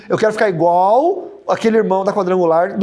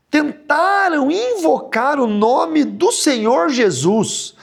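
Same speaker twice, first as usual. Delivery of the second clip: slow, solemn scripture reading; Bible reading; 3 semitones higher, slower than usual. Acted. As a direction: read the verse aloud to the congregation. Reads Bible passage aloud. (leitura bíblica lenta e solene)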